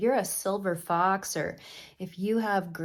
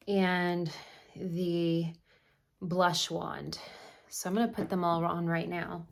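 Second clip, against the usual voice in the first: winded from scrubbing carpet; out of breath; 2 semitones lower than usual. Real, not acted. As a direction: talk while catching breath. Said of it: "Sorry, I'm out of breath".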